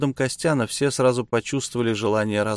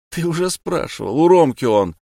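displeased; 6 semitones higher, 6 dB louder than usual. Acted. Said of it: "недовольно заметил Маракасов".

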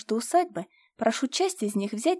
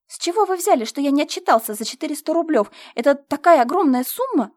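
higher and louder, outraged protest; indignant exclaiming; 4 semitones higher, 6 dB louder than usual. A narrator's reading. Steward protests the missing sum, high and indignant. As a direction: protest in mock disbelief. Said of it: "воскликнул он".

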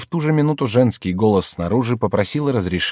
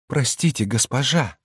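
higher, a mild tremble; trembling voice; 6 semitones higher than usual. A narrator's reading. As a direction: hold back the emotion. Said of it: "сказал он дрожащим голосом".

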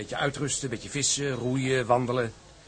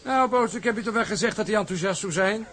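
laughing irony; 7 semitones higher than usual. Acted. Sailor mocks the captain's refusal to his mate, laughing. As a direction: tease through a laugh.

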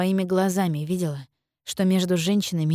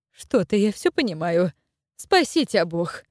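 rapid gabbling. Acted. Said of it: "зачастила Наталья".

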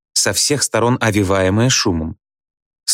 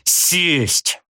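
much higher, sharp single-word orders; escalating drill commands; 9 semitones higher than usual. A narrator's reading. Teacher drills class up and down, ever higher commands. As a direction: push each command higher.

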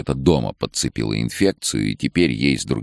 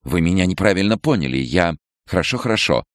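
a touch of flustered fear, higher; frightened backing down; 6 semitones higher than usual. A narrator's reading. Head doctor backing down before Nicole, flustered. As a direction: back off hastily. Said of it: "отшатнулась".

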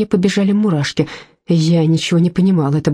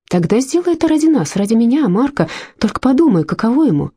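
raised, urgent plea to a friend; pleading; 5 semitones higher than usual. Acted. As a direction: beg her to think of Mark. Marta pleading with Agata.

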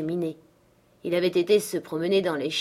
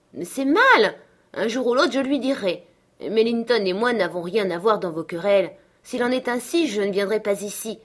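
high, loud protest at first, easing; indignant young girl; 4 semitones higher, 5 dB louder than usual. Acted. Catherine protesting the family feud, indignant. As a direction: object with girlish indignation.

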